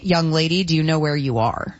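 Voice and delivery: low, stern question, mildly imitated; very serious. Sports director sizing up a job applicant, very serious. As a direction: retell it as a grave warning. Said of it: "he was very serious".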